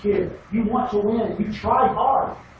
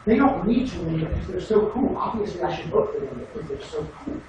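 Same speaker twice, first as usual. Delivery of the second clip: mock too-cool attitude; 2 semitones lower, 4 dB quieter than usual. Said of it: "that doesn't give me".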